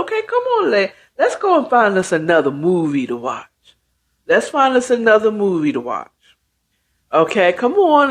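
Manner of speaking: mock-cheery mom coaxing the kids away; fake-smile reassurance. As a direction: put on a fake smile while steering children elsewhere. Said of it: "puts on a fake smile".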